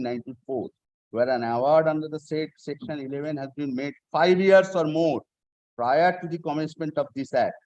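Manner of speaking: reading the statute aloud, measured; formal legal reading. Shown as a demonstration. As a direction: read the law word by word. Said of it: "I am reading section tw".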